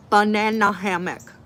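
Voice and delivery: loud, giggly emphasis on the phrase; amused. Real, not acted. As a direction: blurt it out laughing. Repeating the phrase, cracking up.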